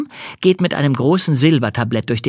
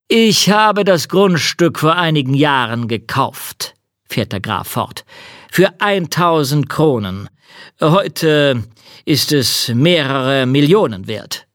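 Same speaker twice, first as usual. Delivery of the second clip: count voice; 4 semitones higher, 3 dB louder than usual. Acted. Count speaking.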